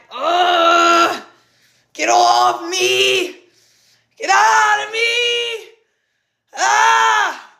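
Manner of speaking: high, slow, drawn-out shout, almost sung; reenacted shouting release. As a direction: yell it out as if throwing something off you. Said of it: "And then it turned into like".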